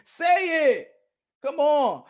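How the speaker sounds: high, insistent coaxing; egging on. Acted. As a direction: urge them to come out with it. Egging others on.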